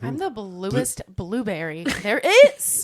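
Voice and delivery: slow, self-important mock boast; pompous guest. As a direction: drag it out like a snob.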